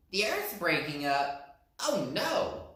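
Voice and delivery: alarmed cry. Acted. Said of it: "cried the other rabbit".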